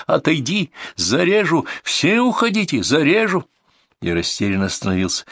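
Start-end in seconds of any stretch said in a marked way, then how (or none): 0.1-3.4 high-pitched, swooping cries; hysterical threats. A narrator's reading. Cornered man holding a child threatens pursuers, hysterically. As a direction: threaten them from a cornered, panicked place. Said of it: "В нём звенели нотки истерики".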